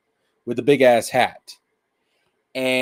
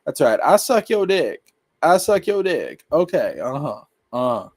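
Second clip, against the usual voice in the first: a hint of a sarcastic, higher fake-agreeing voice; lightly mock the sweet-talking disguise, a bit higher; smug yes-man; 4 semitones higher than usual. Streamer imitating Degasu humoring Goma, lightly voiced smug agreement. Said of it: "This is him looking at Goma like".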